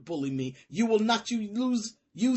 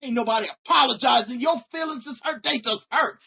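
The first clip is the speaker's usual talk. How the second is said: fast and louder; angry shout; 4 dB louder than usual. Real, not acted. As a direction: spit the refusal out fast. Shouting refusal.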